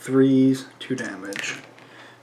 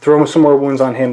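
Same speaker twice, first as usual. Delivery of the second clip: excited; 6 dB louder than usual. Real, not acted. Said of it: "I'm just getting a little excited here".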